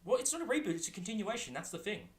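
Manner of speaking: high emphatic correction. Real, not acted. Correcting friend, pitch jumps up.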